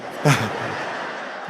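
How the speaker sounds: quiet unvoiced chuckle; a soft laugh after the punchline; soft breathy laugh. Real, not acted. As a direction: laugh under your breath.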